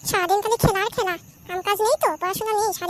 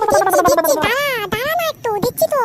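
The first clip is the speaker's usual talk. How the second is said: exasperated mother; 5 dB louder than usual. Acted. Mother snapping back.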